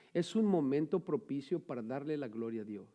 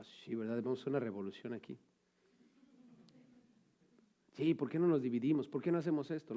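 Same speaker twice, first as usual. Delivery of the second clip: his own scheming thoughts; 3 semitones lower, 6 dB quieter than usual. Retold or imitated. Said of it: "Y yo pensaba".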